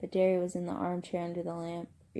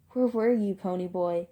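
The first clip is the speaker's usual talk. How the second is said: irritated, raised-voice question; rising voice; 6 dB louder than usual. Acted. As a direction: press him hard for an answer. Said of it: "His voice was rising".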